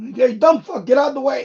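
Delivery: furious, angry, yelled, screaming delivery. Watching someone block the view on screen: screaming at the screen. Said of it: "I'm screaming at the screen".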